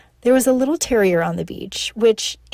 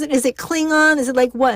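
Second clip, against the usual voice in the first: giggly confusion; 4 semitones higher than usual. Retold or imitated. Asking mom if her gibberish is Klingon, amused confusion. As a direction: guess wildly at her made-up language. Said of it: "And I, I was".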